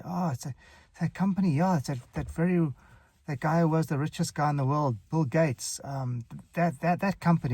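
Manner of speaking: halting hints, fishing for the word; feigned forgetfulness. Acted. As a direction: pretend the name is on the tip of your tongue. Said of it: "pretend that I don't know the word".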